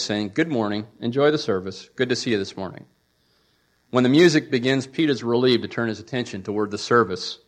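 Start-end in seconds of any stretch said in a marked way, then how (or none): 0.3-2.9 flat monotone greeting. Retold or imitated. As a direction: rattle it off in monotone. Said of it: "with a blank expression and monotone voice".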